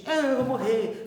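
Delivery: slow, sulky pouting complaint; pouty whine. Retold or imitated. Prophet Elijah sulking that he wants to die, slow pouty whine. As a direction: pout the words like a sulking child. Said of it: "fazendo biquinho".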